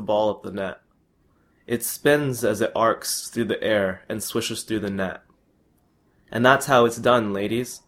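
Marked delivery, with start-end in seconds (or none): 6.3-7.8 yelling. Acted. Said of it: "yells Rahul".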